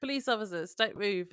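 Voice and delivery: mock police shout. Retelling police surprising Corbett, mild mock shout. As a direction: call it out like police, half-hearted. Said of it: "we hear someone shouting".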